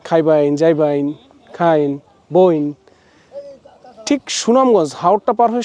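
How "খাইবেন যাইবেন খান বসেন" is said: drawn-out Jamalpur village dialect words, slowing at the end. Shown as a demonstration. Vlogger showing viewers the Jamalpur dialect across the river, in that accent. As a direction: demo the Jamalpur regional accent, savouring each ending. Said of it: "টোনে কথা বলে তারা".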